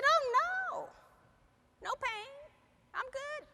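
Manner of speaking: a hint of the friend's breezy reply; mild imitation of the friend brushing it off; high-voiced friend.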